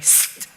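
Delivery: quick hissed zap; imitated sizzle. Storyteller imitating candle catching hair, short buzzy zap. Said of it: "it was like".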